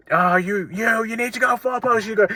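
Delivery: high, strained calls without full volume; mock an assistant manager directing players; imitated coach shouting. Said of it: "a shit ton of shouting at the players".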